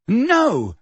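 high, drawn protesting shout. A narrator's reading. Harry trying to stop Dumbledore confessing, shouting. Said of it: "shouted Harry".

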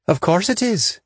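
dry, knowing squad leader; a touch of wry officer; commander voice. A narrator's reading. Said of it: "answered Sinner".

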